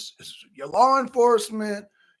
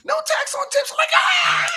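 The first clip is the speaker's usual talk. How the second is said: mock Harris. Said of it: "she like".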